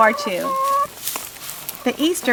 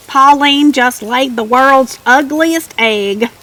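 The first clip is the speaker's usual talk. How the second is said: louder, slow gleeful mockery; mocking cackle; 3 semitones higher, 4 dB louder, slower than usual. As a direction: jeer at her like a bullying hen showing off to the flock. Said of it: "another hen cackled".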